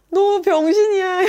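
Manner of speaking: loud, high, drawn-out mock shock; hammed-up scandalized insult; shaming put-down. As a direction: stretch the insult out theatrically. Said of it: "약간 이렇게 꼽주는 거".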